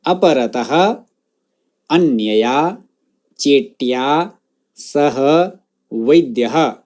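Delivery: drawn-out words with repeat pauses; word-by-word model. Shown as a demonstration. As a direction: pronounce each word separately for students to echo. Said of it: "मेरे बाद उस शब्द का उच्चारण".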